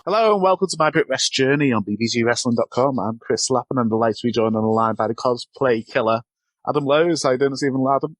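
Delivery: upbeat entertainment presenter intro; polished podcast hosting voice. Real, not acted. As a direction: welcome listeners in your show voice. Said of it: "your entertainment podcast voice".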